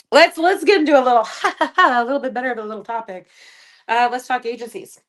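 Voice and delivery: high and loud, bright topic change; upbeat switch. Real, not acted. Moving to a new topic, upbeat energy. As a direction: perk up to move on.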